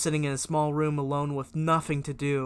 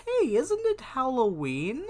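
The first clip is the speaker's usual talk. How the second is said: inner thought voice; 10 semitones higher than usual. Retold or imitated. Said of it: "I thought to myself".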